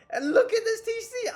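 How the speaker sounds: high, strained laughing cry. Real, not acted. Streamer showing viewers his wrecked town center, laugh-crying. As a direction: squeal at the ruined base through laughter.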